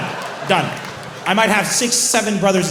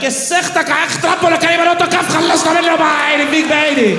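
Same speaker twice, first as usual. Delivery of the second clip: higher, loud angry tirade; angry yell; 11 semitones higher, 7 dB louder, much faster than usual. Retold or imitated. Narrator yelling at the spoiled boy, loud and angry. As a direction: shout him down in Arabic. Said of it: "I was like".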